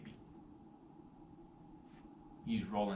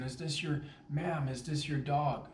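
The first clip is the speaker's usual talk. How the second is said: slow, louder call to a stranger; ma'am called out, slower; raised call; 4 semitones higher, 5 dB louder than usual. Retold or imitated. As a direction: get her attention, slow and loud. Asking the lady about the dog.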